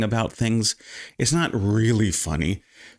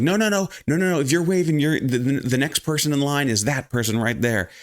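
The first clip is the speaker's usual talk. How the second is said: retold yelling; 5 semitones higher than usual. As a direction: stop the queue-jumper, half-shouted. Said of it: "once I started yelling that".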